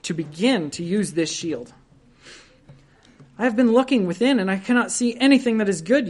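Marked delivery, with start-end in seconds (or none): 3.4-6.1 fretful doubting sinner. Retold or imitated. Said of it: "you say".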